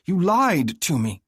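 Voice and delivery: high, slow accusation; accusing. A narrator's reading. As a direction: throw the betrayal at him. Heroine accuses mate.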